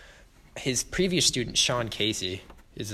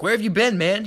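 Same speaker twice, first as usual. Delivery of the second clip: mock angry demand; 10 semitones higher, 6 dB louder than usual. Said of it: "Fletcher's like".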